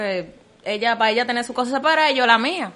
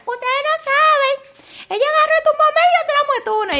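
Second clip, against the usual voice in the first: gossiping coworkers; 3 dB louder than usual. Retold or imitated. Office choir gossiping about him.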